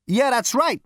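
loud, cocky and impatient; brash Zaphod. Acted. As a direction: throw your weight around. Zaphod casual.

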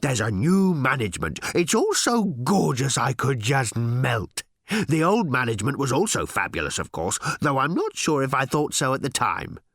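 gushing, breath-catching little robot voice; panting robot. A narrator's reading. Robot telling Ford about new management, panting with delight. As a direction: melt with bliss as you report. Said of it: "panted the robot".

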